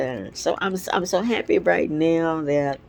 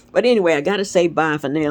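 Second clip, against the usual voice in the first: stuffy sinus voice; talking through a blocked nose; 4 dB louder, much faster than usual. Real, not acted. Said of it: "My sinuses are messing up".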